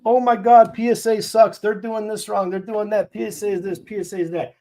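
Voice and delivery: high, loud mock complainer voice; mocking the fans who complain online, high and whiny; mocking whiny commenter. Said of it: "All these freaking dopes".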